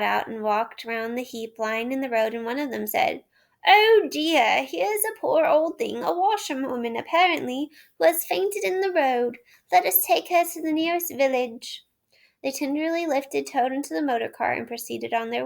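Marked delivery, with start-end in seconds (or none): 3.6-11.8 higher, concerned gentleman's voice; kindly gentleman. A narrator's reading. Gentleman finding the washerwoman, worried and higher. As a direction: fuss over the poor fainted woman. Gentleman finds Toad in road.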